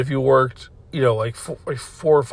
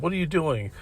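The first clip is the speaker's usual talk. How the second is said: retold snippy question, somewhat higher; shitty tone; 4 semitones higher, 4 dB quieter than usual. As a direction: imitate a nasty questioning tone, pitched up a little. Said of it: "it was a really shitty tone".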